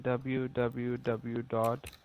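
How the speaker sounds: each letter spelled slowly; slow dictation. Real, not acted. Spelling out web address slowly.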